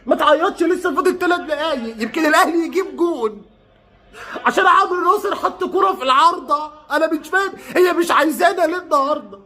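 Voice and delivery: high, plaintive pleading; upset lament. Real, not acted. Fan consoling a crying boy and lamenting his team's luck, upset lament. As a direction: keep it high and wounded throughout.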